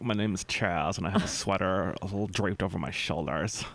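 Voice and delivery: posh preppy guy voice; snooty millennial voice. Pretend. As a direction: play a smug rich kid named Chaz. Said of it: "bourgeoisie version of a millennial".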